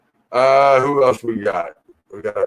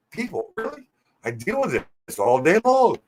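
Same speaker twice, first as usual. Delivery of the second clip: higher, pleading mock despair; exasperated; 7 semitones higher, 3 dB quieter than usual. Real, not acted. Complaining to viewers about Justin, higher mock-despairing appeal. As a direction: appeal to the crowd in fake despair.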